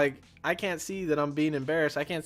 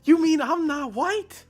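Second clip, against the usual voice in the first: much higher, slow and louder mock panic; panicked disbelief; 7 dB louder, slower than usual. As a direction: draw it out in horrified shock. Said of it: "he starts freaking out".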